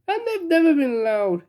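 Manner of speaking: high, tearful sobbing. Acted. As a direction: sob through the words. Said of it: "he sobbed".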